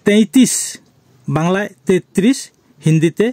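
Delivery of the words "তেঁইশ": তেঁইশ said as Hindi taintis; Hindi pronunciation. Shown as a demonstration. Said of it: "উচ্চারণ হবে".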